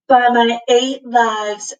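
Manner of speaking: slow, lightly voiced cat oath; a hint of a grave cat; cat swearing, understated; solemn cat.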